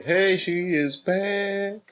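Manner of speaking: drawn-out playful British accent imitation; mock British accent. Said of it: "I wanna learn how to talk like you".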